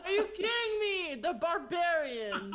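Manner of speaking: laughing, loud and incredulous; laughing disbelief. Real, not acted. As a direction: crack up in disbelief, dragging it out. Player laughs at barbarian insight.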